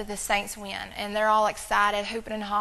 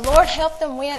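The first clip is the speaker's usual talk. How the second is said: mock giddy pleading, louder and higher; silly prayer; 5 semitones higher, 10 dB louder than usual. Pastor imitating his wife praying for the Saints, giddy and loud. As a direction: ham up a silly game-day prayer. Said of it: "she's being silly".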